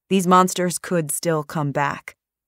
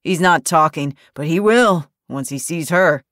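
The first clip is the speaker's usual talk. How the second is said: barked order; 5 dB louder than usual. Acted. Ray commands the others.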